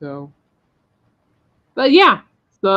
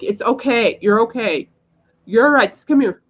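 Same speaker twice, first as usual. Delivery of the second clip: higher, coaxing call to someone across the street; calling reassurance; 5 semitones higher than usual. Retold or imitated. To the woman in the wheelchair, coaxing reassurance. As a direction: wave her over gently but urgently. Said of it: "flagging her over, going like".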